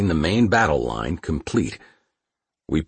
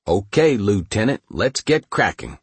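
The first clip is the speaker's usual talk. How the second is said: raised voice over engine roar; shouting over tank engine. Acted. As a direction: call out over the noise. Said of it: "shouted the tank commander, competing with the roar".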